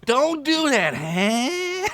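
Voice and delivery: high gruff reproach; orc scolding. Acted. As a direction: tell the goblin off.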